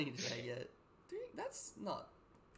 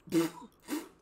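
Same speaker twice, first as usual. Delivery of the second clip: loud squealing laugh; 3 semitones higher, 8 dB louder than usual. Real, not acted. Laughs at the heist payout.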